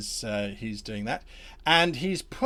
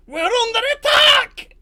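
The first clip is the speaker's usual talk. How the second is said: high, loud raised alarm; shouting alarm; 12 dB louder than usual. Acted. Redcap warning the others of attack, shouted. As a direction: yell the warning. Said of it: "He shouts".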